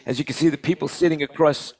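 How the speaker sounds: choppy, cutting out audio; corrupted glitchy audio. Real, not acted. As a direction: voice breaking up on a bad connection. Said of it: "your audio keeps cutting out".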